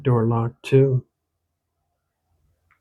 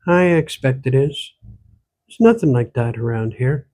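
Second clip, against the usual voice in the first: light Irish lilt mixed with Ottawa Valley; old country woman with an Irish-Ontario accent; a hint of an Irish-Valley accent; Irish-tinged rural Ontario accent. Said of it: "The accent she spoke with".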